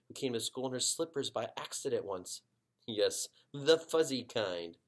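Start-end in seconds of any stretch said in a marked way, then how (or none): 2.9-4.8 smiling. Acted. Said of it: "with a big smile".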